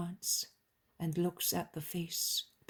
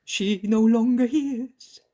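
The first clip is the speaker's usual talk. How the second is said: slow, louder moaning lament; 6 semitones higher, 10 dB louder, slower than usual. A narrator's reading. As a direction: moan it out in grief. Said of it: "moans the nurse".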